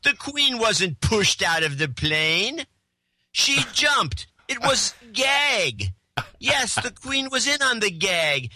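mock-pompous letter reading, rising high; mocking letter writer. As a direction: read it like a know-it-all. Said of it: "he says".

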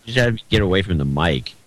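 distant, off-mic voice; turned away from mic. Real, not acted. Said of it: "Now I can barely hear you".

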